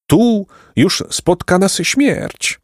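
high, very slow wail of doom; despairing lament. Acted. Uwięzieni chłopcy rozpaczają. (wysoki, powolny, rozpaczliwy lament)

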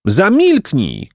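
slow, high, drawn-out command; wild shout. Acted. The boys shouting the old man down. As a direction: bark it savagely. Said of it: "krzyknęli oni dzikimi głosami".

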